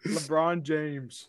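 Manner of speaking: drawn-out slow delivery; slow drawn name. Retold or imitated. Mocking a friend's brothers' catchphrase, drawn slow. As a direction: stretch every syllable slowly. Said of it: "They say this weird thing".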